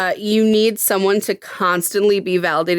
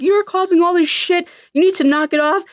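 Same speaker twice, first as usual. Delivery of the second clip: higher-pitched imitation of an angry police chief; retold angry reprimand, pitched up; mock scolding; 9 semitones higher than usual. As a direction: act out a chief telling someone off.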